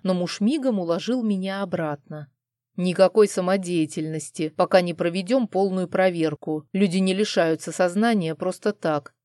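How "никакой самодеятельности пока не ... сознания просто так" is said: firm, no arguing. Acted. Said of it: "безапелляционно заявил муж".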